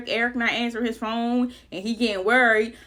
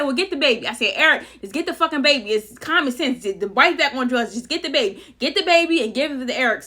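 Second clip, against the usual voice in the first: high and loud, cursing, impatient orders; exasperated command; 3 semitones higher, 6 dB louder than usual. Retold or imitated. Ordering Eric to just get the baby, loud and exasperated. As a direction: bark it like it's common sense.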